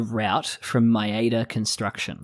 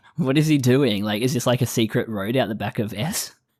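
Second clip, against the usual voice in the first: ordinary talk, nothing marked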